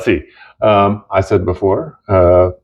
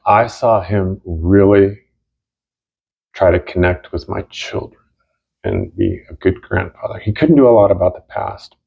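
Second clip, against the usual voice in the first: crying. Real, not acted. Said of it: "I am crying now".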